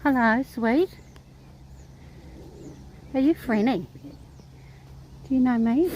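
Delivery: real animal-lover coo; cooing greeting. Real, not acted. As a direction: greet a horse like a beloved pet.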